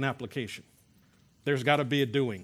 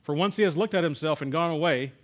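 emphatic, raised public Bible reading; scripture reading; 3 semitones higher, 4 dB louder than usual. Acted. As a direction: read the verse out firmly to a class. Reads scripture aloud to class.

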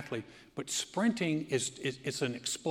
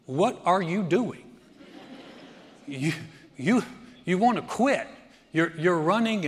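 nagging inner voice; 4 semitones higher, 7 dB louder than usual. Retold or imitated. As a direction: voice the mind doubting you mid-race. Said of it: "your mind will talk to you".

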